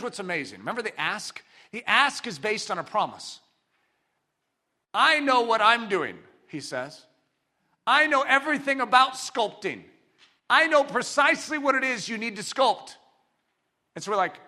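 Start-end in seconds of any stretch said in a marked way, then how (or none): 4.9-6.2 slow, loud, emphatic assurance; the master speaking with certainty; assured declaration. Acted. Voices God's confident promise. 7.9-13.0 raised, loud, emphatic certainty; the master speaking with authority; assured declaration. Acted. Voices God's confident promise.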